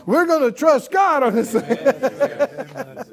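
loud, slow rebuke; hollering. Pretend. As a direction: holler it out, drawn long. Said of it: "you'll hear me hollering at you".

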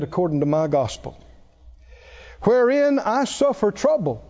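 declaimed Bible verse, pitch lifted on key phrases; emphatic pulpit reading; scripture reading. Acted. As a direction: read scripture out to a congregation. Reads scripture to the congregation.

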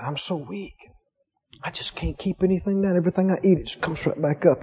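soft, feeble retelling of a sick woman; weak sick woman. Retold or imitated. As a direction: let the words sag like a weak patient. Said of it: "This lady was saying".

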